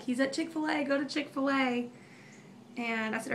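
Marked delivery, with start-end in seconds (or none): 0.0-1.9 slightly raised, mildly urgent retelling; retold urgent instruction. Retold urgent phone call to John.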